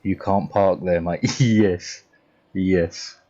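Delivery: mock thick British accent, brusque; heavy British accent. Streamer imitating a heavy British accent to a chat. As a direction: put on a heavy British accent to tell someone off. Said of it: "that's me talking to someone with a heavy, heavy accent".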